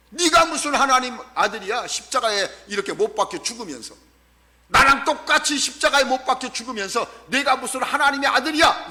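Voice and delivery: scornful retort, lightly acted. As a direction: jeer at him in disbelief. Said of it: "예수님을 비웃고 조롱하는 거예요". (비웃으며 따지듯 조롱하는 말투)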